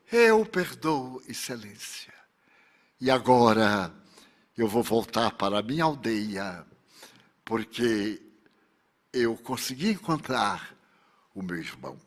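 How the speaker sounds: very low, soft, halting farewell; hushed forgiveness. Acted. Victim forgiving him before returning to her village, hushed and solemn. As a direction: let it sink into a soft, low voice.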